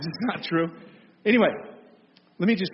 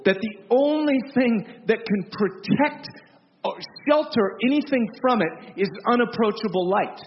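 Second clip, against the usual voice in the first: louder and higher, slow and weighty; preaching at full force; 5 semitones higher, 4 dB louder than usual. Real, not acted. Preacher proclaiming God's glory to the congregation, forceful. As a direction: drive each phrase home with rising fervour.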